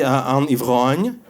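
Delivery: un ivrogne said slowly in careful French; teacher spells out un ivrogne slowly with a French accent; French pronunciation. Retold or imitated. Teacher answering the girl, slow careful French. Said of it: "an alcoholic in French would be".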